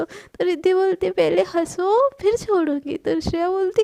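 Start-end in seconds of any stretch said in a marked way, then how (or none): 1.1-3.0 playful teasing. Acted. Riddhi tickling Shreya.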